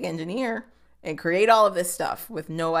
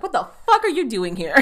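mock angry; 3 semitones higher, 6 dB louder than usual. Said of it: "he gets really mad".

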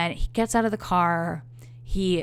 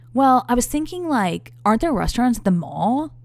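mock dopey date; 6 semitones higher, 5 dB louder than usual. Quoting date's dumb suggestion.

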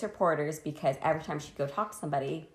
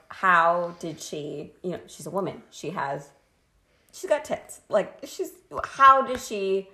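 incredulous people; 3 semitones higher, 4 dB louder than usual. Retold or imitated. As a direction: act out people asking in disbelief. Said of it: "a lot of people were like".

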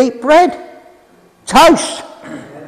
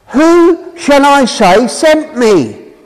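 slow Moses question; 4 semitones higher, slower than usual. Acted. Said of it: "But Moses says, kind of, I'm paraphrasing".

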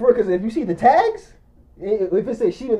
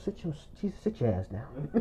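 very quiet, low retold command; hushed order; 7 semitones lower, 16 dB quieter than usual. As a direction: imitate a friend too done to raise his voice. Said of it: "he did like this".

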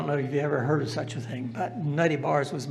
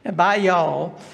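lightly put-on Southern accent, a bit louder; 4 dB louder than usual. Teacher imitating Korean students he taught to speak Southern, in a Southern accent. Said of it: "with a Southern accent".

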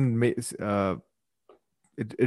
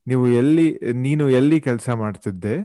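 casual, informal phrasing; without respect; much faster than usual. Shown as a demonstration. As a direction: drop the polite form, speak casually. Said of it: "is how it would be without respect".

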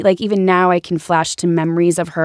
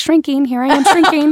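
mock mortified; 8 semitones higher, 4 dB louder than usual. Embarrassed in front of Leslie.

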